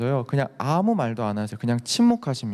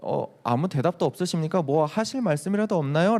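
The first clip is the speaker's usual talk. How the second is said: polite question; 2 semitones higher than usual. Shown as a demonstration. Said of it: "라고 얘기하는 게 아니라요".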